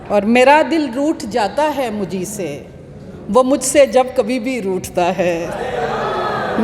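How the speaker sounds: slow, measured mushaira delivery; Urdu poetry recital. Acted. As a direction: declaim each half-line, then let it hang. Recites her ghazals.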